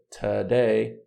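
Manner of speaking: "Today" with the first vowel a lazy "uh"; reduced schwa. Shown as a demonstration. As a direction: reduce the start of "Today", stress the "day". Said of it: "Ó o schwa". ("Today" com schwa na primeira sílaba)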